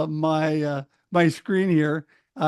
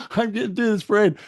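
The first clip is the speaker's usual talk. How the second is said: stubborn, determined restatement; firm resolve; 3 semitones higher than usual. Retold or imitated. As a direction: set your jaw and mean it. Decides to cross the parade.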